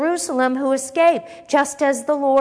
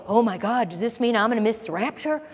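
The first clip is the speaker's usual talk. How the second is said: mock panic. Preacher mimics disciples fearing they'll miss the rapture, mock panic. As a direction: play a worried believer, half in earnest. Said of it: "they didn't go".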